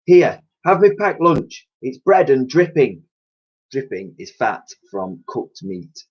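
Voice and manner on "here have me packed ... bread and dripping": slow, higher generous cockney cleaner; offering her lunch gently; kindly cleaning lady. Acted.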